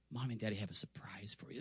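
fast, hushed whisper of a surprise; conspiratorial parent whisper; secret whisper. Retold or imitated. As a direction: lean in and whisper the secret quickly. Parents teasing kids in car.

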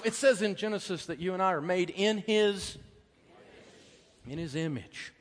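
usual speaking voice

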